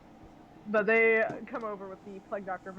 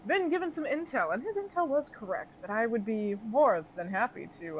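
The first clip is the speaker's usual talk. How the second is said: effusive villainous host. Acted. Host greeting arrivals and offering intel, lightly theatrical. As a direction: relish the welcome, theatrically excited for them.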